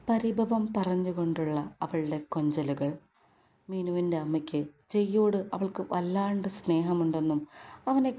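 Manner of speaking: a narrator reading a family drama; story narration. A narrator's reading. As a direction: narrate the scene calmly.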